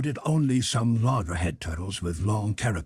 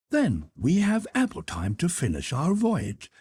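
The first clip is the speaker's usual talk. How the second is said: higher, deferential manservant voice; Conseil the servant; 8 semitones higher than usual. Acted. Servant Conseil respectfully objects to his master, in a higher voice. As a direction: play the polite valet objecting gently.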